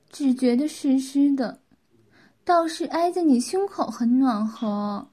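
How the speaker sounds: lightly voiced wife, drawing out her openings; confiding wife. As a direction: confide in your husband, a touch coy.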